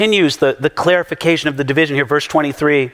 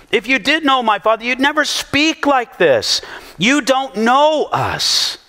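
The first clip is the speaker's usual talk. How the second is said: raised, emphatic rebuke, slowing at the end; Jesus answering; 5 semitones higher than usual. Retold or imitated. Jesus rebuking the accusers, raised and emphatic. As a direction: fire back with conviction. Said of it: "He goes".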